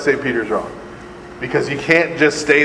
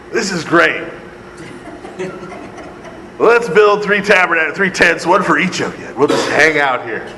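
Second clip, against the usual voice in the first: mock eager Peter; 3 semitones higher than usual. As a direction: ham up a thrilled Peter who wants to stay. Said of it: "What does he say".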